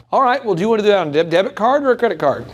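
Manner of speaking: smooth, quick confident close; confident closer. Shown as a demonstration. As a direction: assume the sale, breezy and sure. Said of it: "That's how you do it".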